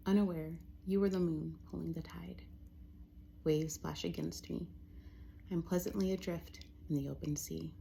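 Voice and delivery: measured poem reading with pauses between phrases; poetry reading. Acted. Poet reading a poem for fall to listeners, measured poetry reading. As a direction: let each line settle before the next. Reads own poem aloud.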